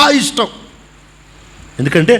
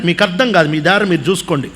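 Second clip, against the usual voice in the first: dismissive gardener; 3 semitones lower, faster than usual. Retold or imitated. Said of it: "అని అనాలి".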